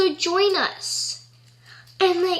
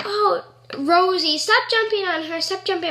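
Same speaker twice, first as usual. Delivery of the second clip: lightly voiced, higher-pitched owner's scolding; fussing dog owner; 4 semitones higher than usual. Dog owner to Rosie jumping on a stranger, mild fussing. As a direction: imitate an owner mildly telling off a dog.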